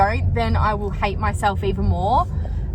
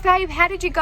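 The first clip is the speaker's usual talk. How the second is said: quoting Kane; 9 semitones higher, faster than usual. Retold or imitated. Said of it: "he's like".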